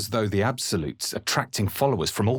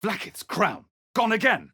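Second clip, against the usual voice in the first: exasperated surprise; 13 semitones higher than usual. Acted. Discovering item missing again.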